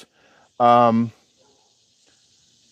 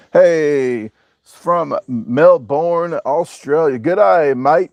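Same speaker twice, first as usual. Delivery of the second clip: mock Australian accent; 4 semitones higher, much slower than usual. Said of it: "She doesn't like me saying that".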